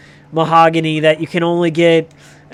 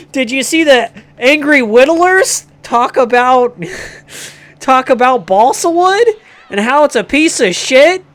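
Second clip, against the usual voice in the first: much higher, giddy nerd voice with laughs; excited nerd; 6 semitones higher, 4 dB louder than usual. Retold or imitated. Hardware store customer gushes over balsa wood, high giddy fanboy. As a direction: squeal it like an overeager fanboy. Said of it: "and he is like".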